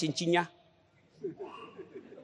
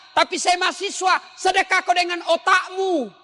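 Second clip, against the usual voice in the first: high, loud fervent sermon; full-force preaching; 9 semitones higher, 4 dB louder than usual. Acted. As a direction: drive the congregation hard. (khotbah berapi-api dan lantang)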